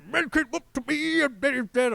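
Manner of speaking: high, loud, mumbled mock singing; imitating sassy singer. Co-host recalling the vocal parts he liked, mock singing. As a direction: belt out half-remembered lyrics with sass. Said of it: "the parts with the lower vocal bits".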